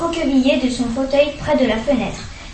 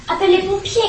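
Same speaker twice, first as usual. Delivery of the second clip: much higher panicked cry for help; sudden cry; 7 semitones higher, faster than usual. A narrator's reading. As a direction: call out as if her insides burn. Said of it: "cria-t-elle soudain".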